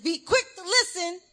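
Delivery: high and loud, laughing through the words; teacher half-laughing, repeating the verse again; exasperated laughing. Retold or imitated. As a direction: laugh it out, at the end of her rope. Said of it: "I said".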